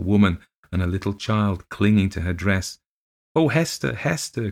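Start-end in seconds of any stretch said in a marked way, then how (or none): 3.4-4.5 put-on high, frantic child's cry. Little girl sees the phantom lady, high frantic cry. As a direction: call the nurse in rising panic. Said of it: "cried Miss Rosamond".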